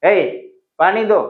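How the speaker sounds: rude demand. Shown as a demonstration. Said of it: "it sounds weird".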